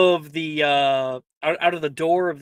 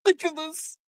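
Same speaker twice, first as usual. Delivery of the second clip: spell voice; 13 semitones higher, faster than usual. Acted. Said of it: "he is able to get it off".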